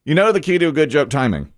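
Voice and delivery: fast then pause. Shown as a demonstration. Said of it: "I'm gonna tell you a funny joke here".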